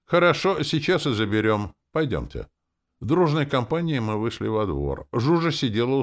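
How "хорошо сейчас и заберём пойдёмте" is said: higher, louder chipper agreement; perky. A narrator's reading. Hero cheerfully agreeing to take the dog, higher and louder. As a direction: bounce it out briskly. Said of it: "проговорил бодренько".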